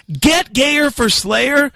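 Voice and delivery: mock outraged yell. Manager repeating the contest name in outrage, mock yell. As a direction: spit the slogan back like an angry manager. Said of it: "he was yelling and cussing at me".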